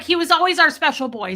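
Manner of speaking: high, loud mock mourning; mock eulogy. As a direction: lament it like a hammed-up funeral tribute. Mock eulogy for supposedly dead cat.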